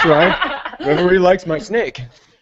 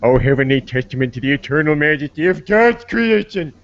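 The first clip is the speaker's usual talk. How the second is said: Homer Simpson voice; 4 semitones lower than usual. Retold or imitated. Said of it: "include the Homer Simpson thing".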